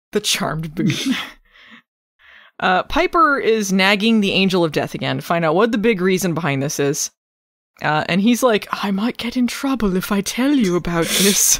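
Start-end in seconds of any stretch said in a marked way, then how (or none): 8.7-11.6 put-on mild, light, vaguely British accent. Recapping Charmed, speaker voices the Angel of Death answering Piper: soft-spoken British Angel of Death. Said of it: "Just a soft-spoken British man".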